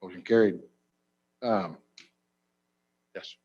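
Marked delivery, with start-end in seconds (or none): none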